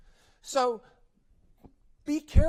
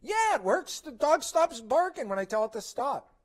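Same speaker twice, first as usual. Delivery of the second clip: a hint of a confident owner, higher; lightly voiced dog owner; 8 semitones higher, 5 dB louder than usual. Owner answering that the scolding works, lightly voiced. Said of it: "What's the owner gonna say?".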